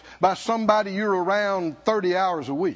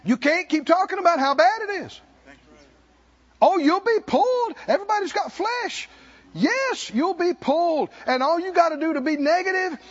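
rising sermon push; 6 semitones higher than usual. Real, not acted. Preaching at full force.

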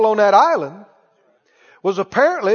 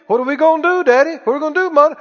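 lightly voiced children, pitched up; higher, like kids asking their parents; worried kids; 4 semitones higher, much faster than usual. Kids looking to Daddy and Mother after bad news, lightly acted worry. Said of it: "your kids look at you".

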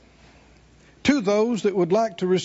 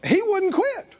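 raised, insistent preacher's delivery; emphatic preaching; 6 semitones higher than usual. Acted. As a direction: preach it with drive, pitched up. Preaches the story.

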